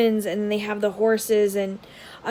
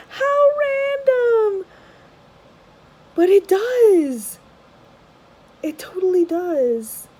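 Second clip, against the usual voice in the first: high giggly laughter through the words; laughing; 10 semitones higher, 6 dB louder, slower than usual. Real, not acted. Amused by a rapper lookalike card, laughing high.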